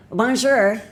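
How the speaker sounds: high-pitched, mangled French greeting; unsure, bad French accent. Shown as a demonstration. Shy learner attempting French, in a bad French accent. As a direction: squeak out French in a clumsy English accent. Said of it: "end up sounding way worse".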